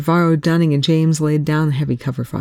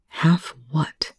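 whispered, softer question; softly asked; 4 dB quieter than usual. Acted. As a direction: ask it under the breath, cautious. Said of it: "Telford said softly".

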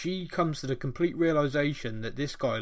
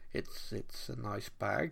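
awkward polite reply; 5 semitones lower, 10 dB quieter, slower than usual. Retold or imitated. Clint awkwardly humouring the woman.

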